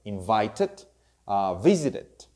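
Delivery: "invited", "visited" each ending in a full "ed" syllable; extra ED syllable. Shown as a demonstration. Teacher models past-tense endings for students, extra ED syllable. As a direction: sound out the added "ed" in "invited" and "visited". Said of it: "you will pronounce ed, extra syllable".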